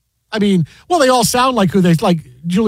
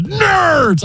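booming, much higher yell of one word; Ogre's shout; 10 semitones higher than usual. Retold or imitated. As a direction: bellow it like the movie jock. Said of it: "The Taisha goes".

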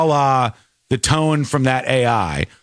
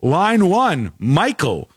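terrible radio host; 5 semitones higher, slower than usual. Retold or imitated. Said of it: "terrible radio hosts who would go".

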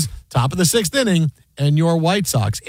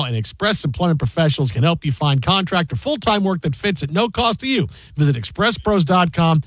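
smooth, scripted sponsor read; host's commercial copy delivery; radio ad read. Real, not acted. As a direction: sell it like a live radio spot. Reads a sponsor ad.

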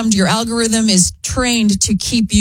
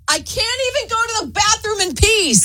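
high, exasperated worn-out mom; 12 semitones higher than usual. Retold or imitated. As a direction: whine it like a frazzled mom. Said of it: "they're like".

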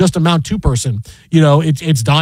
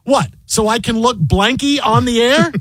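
Barry Melrose quote; 6 semitones higher than usual. Retold or imitated. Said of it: "he goes".

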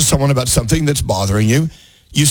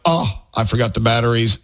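low-key, natural "oh" of realizing; casual realization; 3 semitones lower than usual. Shown as a demonstration. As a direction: say it offhand, as on Christmas morning. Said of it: "Is it better like that?".

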